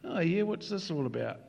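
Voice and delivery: casual, offhand churchgoer voice; nonchalant. Acted. Newcomer wanders into church, mildly nonchalant. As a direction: toss it off as if unbothered. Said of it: "quite nonchalantly and casually".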